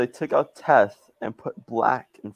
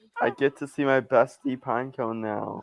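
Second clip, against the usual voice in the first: usual speaking voice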